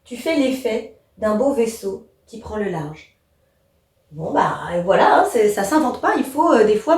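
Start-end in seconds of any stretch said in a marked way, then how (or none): 0.0-3.2 "Tu fais l'effet / d'un beau vaisseau / qui prend le large", evenly split; measured reading in three equal groups, breaking before "d'un beau" and "qui prend"; three-measure verse reading. Shown as a demonstration. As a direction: pause after "l'effet" and after "vaisseau". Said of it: "il se découpe en trois".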